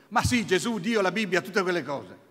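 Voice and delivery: agitated father. Retold or imitated. Father blurting out to his son what upset him, loud and rattled.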